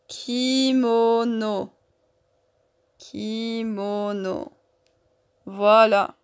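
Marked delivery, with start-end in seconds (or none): 0.1-4.5 "kimono" slowly drawn out, syllable after syllable; syllabes allongées. Shown as a demonstration. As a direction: stretch every vowel of "kimono", joined up. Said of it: "les trois pièces du puzzle qui font le mot". (« kimono » lentement, en allongeant chaque syllabe)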